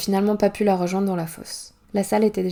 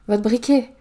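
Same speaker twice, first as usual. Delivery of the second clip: called out loud after a man walking away; calling out; 3 semitones higher, 6 dB louder, slower than usual. Acted. Narrator calls out to the departing stranger, loud. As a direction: raise the voice to stop him leaving. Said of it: "Je l'interpelle avant qu'il ne rentre".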